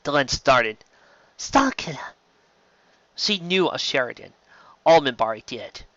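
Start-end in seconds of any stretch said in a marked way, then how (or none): 1.4-2.2 startled. Acted. Delenn startled by news.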